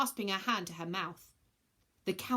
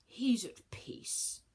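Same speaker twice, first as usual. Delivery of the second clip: gentle whisper; much slower than usual. Acted. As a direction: comfort her gently, almost silent. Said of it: "he said gently".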